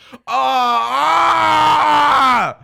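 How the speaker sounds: high, loud surprised yell; excited shout. Real, not acted. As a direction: shout in sudden shock. Reacting to play.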